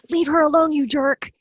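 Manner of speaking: high, loud mock scolding of a character; mock indignant. Co-writer voicing margin comments at a villain, mock indignant. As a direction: yell at the villain on the page. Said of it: "comments she makes".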